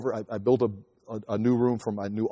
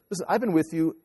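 teasing wife; 5 semitones higher than usual. Retold or imitated. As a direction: tease her, building up until you laugh. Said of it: "I says".

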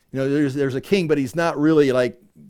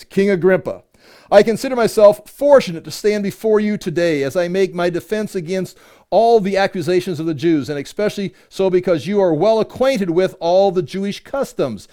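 higher, emphatic public reading; scripture reading; 4 semitones higher, 4 dB louder than usual. Acted. Paul addressing King Agrippa in his defense, emphatic scripture reading. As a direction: proclaim it like a formal address. Reads Paul's defense aloud.

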